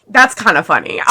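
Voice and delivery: laughing. Real, not acted. Laughing at the book.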